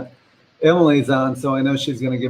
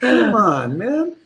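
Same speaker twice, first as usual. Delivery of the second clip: high-pitched playful protest; comically betrayed, voice jumping up high; mock dismay; 11 semitones higher than usual. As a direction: plead in hammed-up disbelief. Loses hair vote, mock protest.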